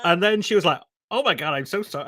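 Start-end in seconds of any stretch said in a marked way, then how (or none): 1.1-2.0 lightly imitated American woman; a hint of American in a retold apology; poor American accent. American passenger apologising to two travellers, poor American accent. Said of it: "apologies for the poor American accent".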